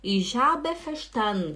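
"verstanden" as fer-SHTAN-n, E left out; swallowed final E. Shown as a demonstration. Teacher reading Angela's comment, swallowed ending. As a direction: let the end of "verstanden" melt into n. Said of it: "O E não fala".

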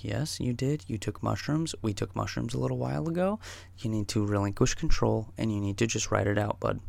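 softly talking someone down; calm reassurance. Retold or imitated. Sitter to panicking tripping friend, soft calm reassurance. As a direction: keep it soft and steady, like a sitter.

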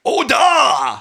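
high, loud mock shout of dismay; hammed-up cartoon cry of alarm; retold alarmed cry. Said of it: "And they're like".

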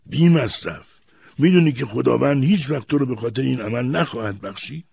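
high, loud, aghast; horrified. A narrator's reading. Grandfather warns boy God will never forgive, horrified. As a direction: raise the voice in horror.

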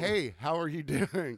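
slow, carefully spaced greeting; slow repeated greeting. Retold or imitated. Server repeats the greeting slowly to a stoned customer. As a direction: spell it out slowly for someone out of it. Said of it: "I was like".

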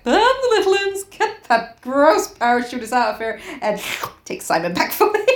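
lightly hammed-up island giving orders; island as character. Island ordering its dead cleared away, mock commanding.

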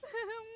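delighted cackle; joyful laugh. Acted. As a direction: laugh out of sheer relief.

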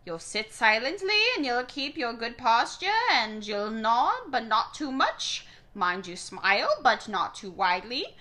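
a hint of a stern, harsh grandmother; lightly voiced strict old lady giving orders. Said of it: "That harsh voice rang".

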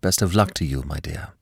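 quick, fading soft at the end; a caller warming before hanging up; hasty, different tone. Acted. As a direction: soften suddenly, almost to nothing. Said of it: "added hastily, in a different tone".

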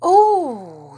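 high, loud, delighted "oh"; joyful gasp of "oh". A narrator's reading. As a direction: let out a big joyful oh. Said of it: "his big face going red with joy".

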